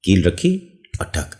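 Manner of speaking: slow and soft, ending on a ठक knock; mouth-made hammer blow, unhurried; hammer sound effect. Shown as a demonstration. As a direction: place the nail, then ठक. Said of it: "लग रहा है ना कील लगा रहा हूं".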